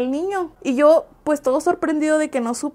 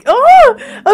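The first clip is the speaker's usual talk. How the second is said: shocked oh; 11 semitones higher, 11 dB louder than usual. Real, not acted. Shocked by the mother's advice.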